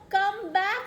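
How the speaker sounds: high, loud mock yell; screaming mama. A narrator's reading. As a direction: call the runaway child back. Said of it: "screams Mama".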